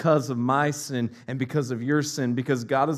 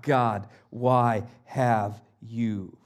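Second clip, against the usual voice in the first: anguished cry; 4 semitones lower than usual. Retold or imitated. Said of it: "And he cries out".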